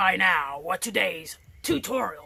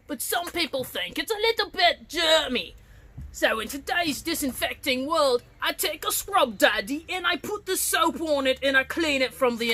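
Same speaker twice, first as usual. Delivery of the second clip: excited high voice; 5 semitones higher than usual. Acted. Pirate teacher reassuring about germs.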